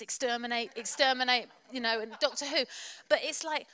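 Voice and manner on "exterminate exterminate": lightly voiced robotic villain; a hint of a sci-fi monster's chant; Daleks. Preacher recalling Doctor Who, lightly mimicking the villains. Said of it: "I thought of the Daleks".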